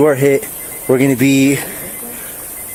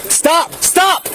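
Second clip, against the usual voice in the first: yelling commands at suspect; shouted surrender demands; slower than usual. Real, not acted. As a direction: bark the order at full volume. Officer ordering suspect.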